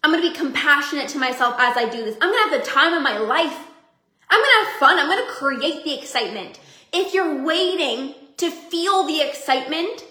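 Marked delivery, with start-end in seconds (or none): 4.3-5.0 higher and louder burst of glee; gleeful declaration; excited. Real, not acted. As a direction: shout it with joy. Declaring her resolve.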